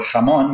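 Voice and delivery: "jamón" said the Spanish way, J as a throaty H; Spanish "jamón" with a strong H at the start; Spanish fricative. Shown as a demonstration. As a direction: open "jamón" on a velar fricative. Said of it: "exactly the same sound in Spanish".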